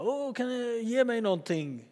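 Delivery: high, soft pleading beggar; a plaintive beggar asking for coins; begging plea. Retold or imitated. Beggar at the temple gate pleading with Peter and John, soft and high. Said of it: "ni vet, som tiggare gör".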